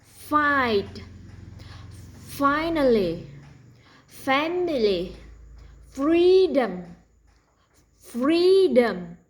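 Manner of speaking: Fight, Finally, Family, Freedom with a strong f hiss; crisp f onset drill; drill words with clear f. Shown as a demonstration. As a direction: model each f word loudly. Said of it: "Here we go".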